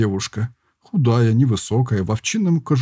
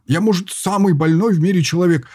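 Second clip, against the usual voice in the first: sulky pout; 6 semitones higher than usual. A narrator's reading. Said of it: "обиженно надулся тот".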